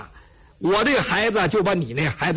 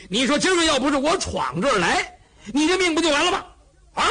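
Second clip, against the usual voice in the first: blustering exclaim; 3 semitones higher than usual. Acted. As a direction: bellow it out, full of bluster. Cheng exclaims, blustering loudly.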